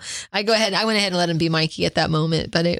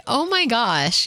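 slow, higher-pitched mock disbelief; imitated dismayed teenagers; 5 semitones higher, much slower than usual. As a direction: lightly act out teens reacting to a kid. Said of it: "these teenagers were probably like".

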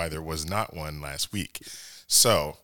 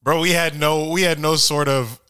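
excited; 7 semitones higher, 5 dB louder than usual. Real, not acted. Celebrating beating the Bills.

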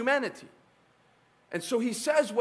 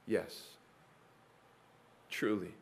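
whispered yes; 10 semitones lower, 9 dB quieter, slower than usual. Real, not acted. Hushed answer.

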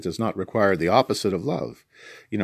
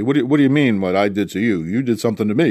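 indignant retort; 4 dB louder, faster than usual. Retold or imitated. Imagined indignant reply to forgiveness.

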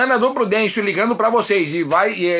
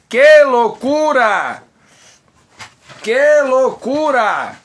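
excited; 4 semitones higher, 5 dB louder, much slower than usual. Real, not acted. Exclaiming about the event.

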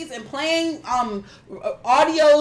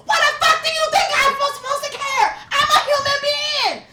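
mocking Nicki in a much higher, shrill-free raised voice; high mock rant; 13 semitones higher than usual. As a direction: squeak out her outrage as a parody. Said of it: "And she was like".

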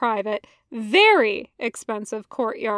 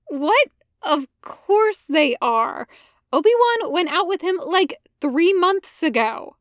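high, louder, fast indignant reply; startled Anakin; 5 semitones higher, 4 dB louder than usual. Acted. Anakin to Ahsoka, a high startled retort. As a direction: brush off the doubt.

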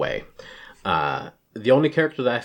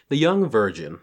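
formal, measured announcer read; newscaster voice. Shown as a demonstration. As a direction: read it like the evening news. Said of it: "That sounds like a newscaster".

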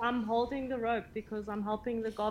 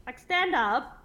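higher, brisk call to get moving; urging on; 4 semitones higher, 3 dB louder than usual. Acted. Player urges fallen companions up, rousing call. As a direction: chivvy them to their feet.

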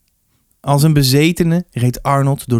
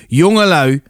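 sharp, raised call to order; whip-crack voice; 4 semitones higher, 4 dB louder than usual. A narrator's reading. Rector breaking up a fight, whip-crack voice. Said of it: "zijn stem trof hen als een zweepslag".

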